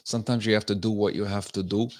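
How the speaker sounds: lightly put-on Latina accent; a hint of mock Latina accent; mock Rosie Perez. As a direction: imitate a politician slipping into a Latina accent. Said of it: "she sounds like Rosie Perez".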